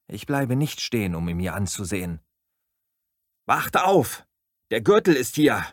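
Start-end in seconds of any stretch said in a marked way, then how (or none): 3.5-5.6 high, loud warning yell; panicked shouted warning. Acted. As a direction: shout "Gürtel" down the hallway to wake everyone. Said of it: "schreie ich".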